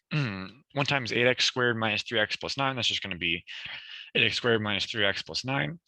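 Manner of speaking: losing voice, a bit hoarse. Real, not acted. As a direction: talk through a worn, hoarse throat. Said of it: "I'm losing my voice".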